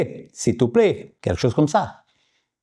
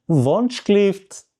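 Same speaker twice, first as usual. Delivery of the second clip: Wunschlift drawn out delicately, raised pitch; 6 semitones higher than usual. Shown as a demonstration. Customer asking the waiter once more, delicately. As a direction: say Wunschlift as a gentle, lengthened request. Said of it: "tu dis encore une fois, délicatement".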